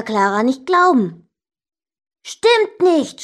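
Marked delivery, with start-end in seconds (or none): 2.2-3.2 high, loud contradiction; shouted denial. A narrator's reading. Brother refuses to believe sister, high shout. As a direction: yell it back at your sister. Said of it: "schrie ich".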